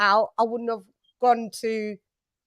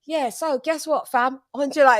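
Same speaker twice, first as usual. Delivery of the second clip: pitched-up, sassy mock statement reading; with attitude; 3 semitones higher than usual. Re-enacting the statement read for the director, with attitude. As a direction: read it out with playful swagger. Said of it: "you've gotta do it with attitude".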